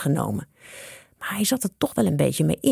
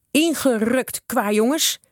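higher, mildly shouted order; 6 semitones higher, slower than usual. A narrator's reading. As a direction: send the rascals packing. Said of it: "schreeuwde de slager". (streng schreeuwend)

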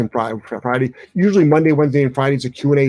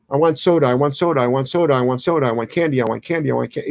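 put-on nagging kid. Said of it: "whine and cry too".

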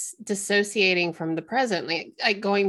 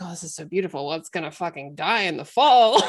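mock cynical quip; 2 semitones lower, 3 dB louder, faster than usual. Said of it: "you're, you're like".

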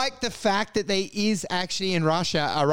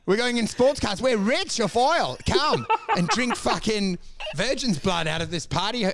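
lightly voiced playboy bragging about sports cars; mock seductive boast; 4 semitones higher than usual. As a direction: tease it like a smug oil-rich party host. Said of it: "And I was like".

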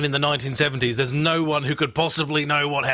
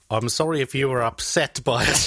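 fake apology. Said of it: "Did he say".

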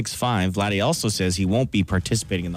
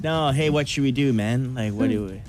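fake French accent; 3 semitones higher than usual. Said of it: "Why do they talk like that?".

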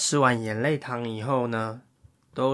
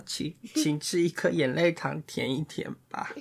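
scared fairy; 7 dB quieter than usual. Acted. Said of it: "小精灵很害怕".

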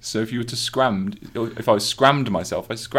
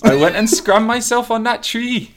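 higher, louder Welsh accent; 14 semitones higher, 8 dB louder than usual. Shown as a demonstration. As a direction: lay the Welsh accent on thicker. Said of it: "you're funny with accents".

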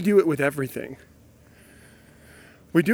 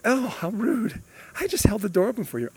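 quick, softer offended grumble; muttered indignation; 6 semitones higher, 5 dB quieter than usual. Retold or imitated. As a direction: grumble it under your breath. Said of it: "this thought process of like".

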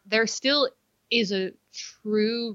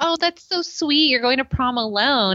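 mocking mean girl; 3 semitones higher, 3 dB louder than usual. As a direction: imitate the mean girl dripping fake sweetness. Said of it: "what that fucking bitch said to me".

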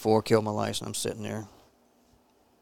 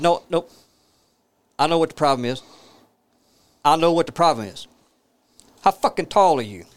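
exasperated, higher and louder; retold telling-off; 4 semitones higher, 5 dB louder than usual. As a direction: cut him off with mock-angry insistence. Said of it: "I went off on the guy".

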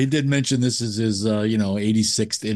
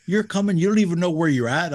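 high, incredulous "what?"; lightly acted disbelief; mock surprise; 6 semitones higher than usual. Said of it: "'cause he was like".

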